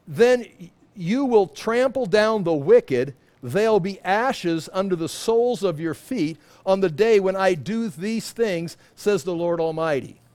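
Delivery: slow, weighty scripture reading. Acted. Pastor reading Malachi to the congregation, slow and solemn. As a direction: read it out like holy writ.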